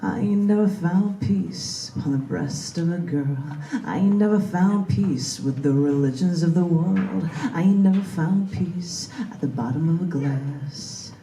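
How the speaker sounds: rhythmic spoken-word poem, building to fervent declaiming; poem performance. Acted. Poet reading his poem to a live audience, rising fervour. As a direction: perform it like a slam poet rallying a crowd. Reads own poem aloud.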